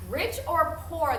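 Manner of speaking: high, emphatic declaration; declaring. A narrator's reading. Prince announcing his choice of bride, declaring. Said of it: "the prince declared".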